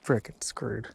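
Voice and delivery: talking between gulps of drink; swallowing a drink mid-sentence; gulping a drink. Real, not acted. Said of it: "Sorry about the gulping".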